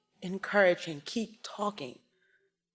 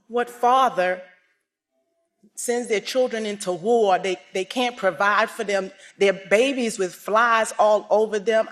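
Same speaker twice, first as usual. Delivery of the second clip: raised, louder voice of outrage; demanding answers, angry and loud; angry reproach; 5 dB louder than usual. Retold or imitated. Angry young man scolding his father, raised voice. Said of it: "I was so angry".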